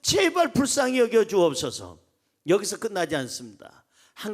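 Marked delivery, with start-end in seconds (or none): 0.0-2.0 higher-pitched imploring plea; pleading. Retold or imitated. Blind man begging the Lord for mercy, acted pleading. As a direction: retell it as an earnest entreaty. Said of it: "간구하고 간청한 거예요".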